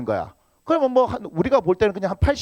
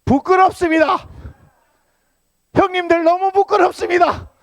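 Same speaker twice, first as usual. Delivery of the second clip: mock shame; 11 semitones higher, 5 dB louder than usual. Pastor mock-scolds the brothers.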